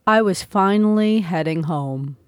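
ordinary delivery, nothing marked

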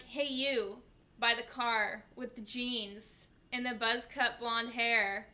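loud, slowed call-out; microphone announcement. Retold or imitated. Worker describing a waiting customer over the microphone, loud announcement. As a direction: call out deliberately over the mic. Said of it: "So I get on the microphone".

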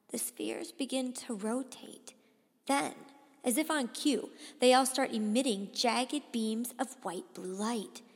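suspenseful storytelling, building urgency; story narration. A narrator's reading. Boy watching spheres dot the horizon, tense narration. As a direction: read it as mounting danger.

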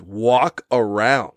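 very slow flat dismissal; deadpan repeat. Real, not acted. Mocking the sister's covid tip, slow and scornful. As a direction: drag the phrase out scornfully. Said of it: "pretty sure that's the last thing".

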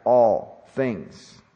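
"all things" with weight on ALL; emphatic ALL. Shown as a demonstration. Preacher explaining the Greek word to listeners, emphatic "all things". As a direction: stress "all" firmly, then let "things" fall. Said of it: "and it's emphatic".

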